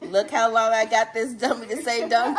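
gleeful, laughing read of the line; laughing repeat. Real, not acted. Kid teasing mom with the punchline, laughing. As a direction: savor the punchline through giggles.

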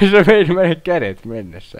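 high and loud, still half laughing; excited disbelief. Real, not acted. Gamer reacting to losing arms, high excited disbelief. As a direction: cry it out in amused disbelief.

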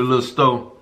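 talking while chewing; words muffled by food; mouth full. Real, not acted. Seen 0: Man bit sandwich at -2, holds it, mouth chewing while speaking.

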